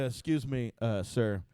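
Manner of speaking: imitating a timid opener asking a star. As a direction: shrink as you ask. Meekly addressing Dice.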